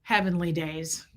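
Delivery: low, slow imitation; imitated slow reaction to surprising news; Fred's catchphrase. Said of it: "and he'd go".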